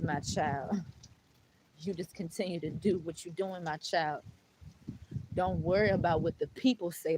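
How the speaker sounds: lightly voiced, solemn God calling her my child; God's voice reassuring her child. Voicing God speaking to her.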